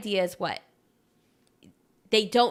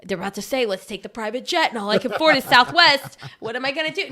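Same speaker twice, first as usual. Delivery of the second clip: anxious friend. Retold or imitated. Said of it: "be on the defensive and be like".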